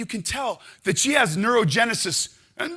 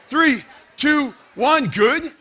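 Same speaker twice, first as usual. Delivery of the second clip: loud, higher count; shouted countdown; 5 semitones higher, 7 dB louder, much slower than usual. Real, not acted. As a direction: drive the class to the finish. Counting down a timed hold.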